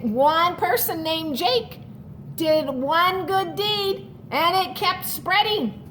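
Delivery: storybook read-aloud to the class; reading to children. A narrator's reading. Teacher reading a picture book to her class, storytelling voice.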